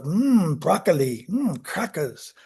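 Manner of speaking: put-on light German accent on the food words; a hint of a German tester. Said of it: "I'm doing a, like, a German accent".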